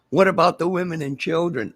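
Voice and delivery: comic panicked question; mock pleading bystander. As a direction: plead for the women and children. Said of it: "mock rescue dialogue".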